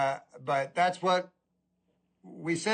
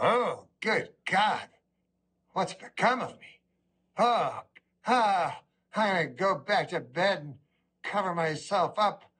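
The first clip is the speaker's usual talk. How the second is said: moaning, hammed-up dismay; comic self-pitying whimper; mock despair. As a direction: groan at your own reflection, half-crying. Acted despair at the mirror.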